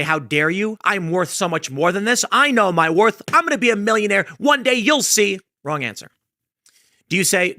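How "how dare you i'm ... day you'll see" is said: mock offended. Job seeker scoffing at the recruiter's offer, mock indignant. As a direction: puff up in hurt pride, rising to a grand vow. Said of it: "Do you get offended and say".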